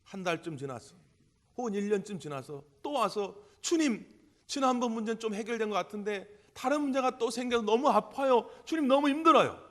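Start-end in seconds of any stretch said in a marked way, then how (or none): 3.6-9.6 pleading cry, much higher and louder as it builds; anguished plea. Retold or imitated. A worn-out believer crying out to Jesus, pleading wail. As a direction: cry out to the Lord, pain rising to a wail.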